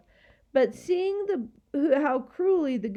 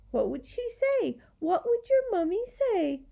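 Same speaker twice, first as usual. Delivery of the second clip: high, taunting fake interest; mocking creature; 10 semitones higher than usual. A narrator's reading. Gaboon chin on hand before the girl, mocking. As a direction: tease her in a high voice.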